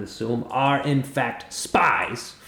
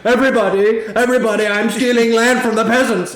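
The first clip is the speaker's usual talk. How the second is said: much louder, much higher, a crowing announcement; shouted proclamation; 11 semitones higher, 9 dB louder than usual. Acted. Martin announcing to everyone in the hall, loud proclamation. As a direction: bellow it to the whole room. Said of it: "Martin immediately holds up one of the contracts and goes".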